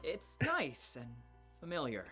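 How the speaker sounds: amused chuckle. Acted. Eden finding Tabby's yelling familiar, amused chuckle. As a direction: chuckle midway through the phrase.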